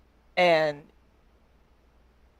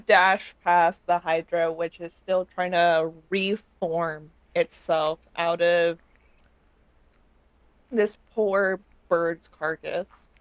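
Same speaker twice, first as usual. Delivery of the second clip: mouth full. Real, not acted. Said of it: "I'm chewing food and I'm trying to swallow".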